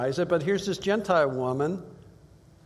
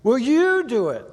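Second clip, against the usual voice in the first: pressing question; 8 semitones higher, 5 dB louder than usual. Acted. Disciples pressing Jesus.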